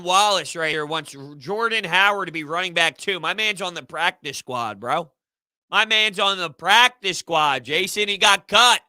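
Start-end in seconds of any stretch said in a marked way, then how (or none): 5.7-8.8 emphatic correction. Real, not acted. Correcting a chatter's claim.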